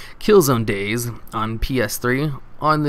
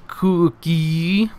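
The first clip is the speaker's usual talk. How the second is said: ominous growl to maniac; 6 semitones higher than usual. Retold or imitated. Narrator scaring the gamer, from ominous growl to maniacal. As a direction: growl that climbs higher into a maniac's cry. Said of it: "starting in a low, ominous growl, and moving in a tone of a maniac".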